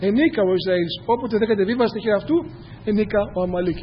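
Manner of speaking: measured formal Bible reading; scripture reading. Acted. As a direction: read the verses like holy text. Reads scripture aloud.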